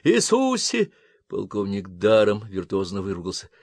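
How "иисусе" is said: swearing. Acted. Colonel swears in panic.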